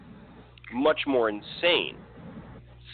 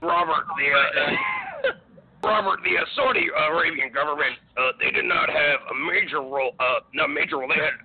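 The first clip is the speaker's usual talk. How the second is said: hammed-up ranting impression, breaking into laughs; mock radio rant. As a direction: play a blustering conspiracy host. Mock rant after Alex Jones talk.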